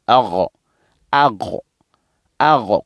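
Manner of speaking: "agro" with a throaty gh in the middle; gh sound. Shown as a demonstration. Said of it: "comme le G, et puis le H".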